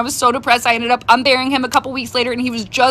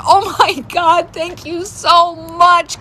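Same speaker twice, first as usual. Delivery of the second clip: grateful gush; 5 semitones higher, much slower than usual. Retold or imitated. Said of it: "I was like".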